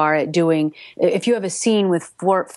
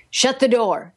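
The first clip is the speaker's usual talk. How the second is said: higher-pitched dramatized command; acted dialogue line; 6 semitones higher than usual. Shown as a demonstration. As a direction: play a co-narrator's order, pitched up. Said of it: "so he can say".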